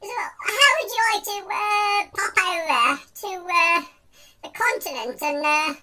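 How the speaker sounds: hesitant mock posh gent; halting, showy offer in a posh accent. Man offering a week on his yacht, posh accent. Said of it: "using my posh accent for this one".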